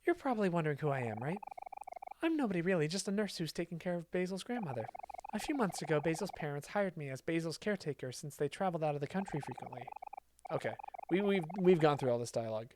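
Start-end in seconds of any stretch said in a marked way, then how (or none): 0.1-9.8 a hint of a calm nurse explaining herself; nurse character. Nurse telling the player who she is, lightly voiced. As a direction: read it as a caretaker introducing herself.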